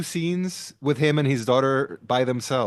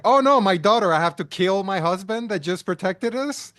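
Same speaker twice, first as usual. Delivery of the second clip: higher-pitched mock alarm; exaggerated panic, imitating the wife; 6 semitones higher than usual. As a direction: put on a silly overreaction. Mocking the wife's panicked reaction.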